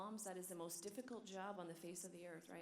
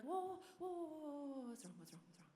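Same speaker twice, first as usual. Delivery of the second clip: imitated child's wailing; 7 semitones higher than usual. Daycare worker imitating a child in meltdown, mock wailing. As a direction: wail like a toddler in meltdown. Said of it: "wailing and just crying and crying, crying, be like".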